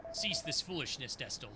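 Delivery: low, commanding rebuke; stern old mentor. Acted. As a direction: order the pupil to stop.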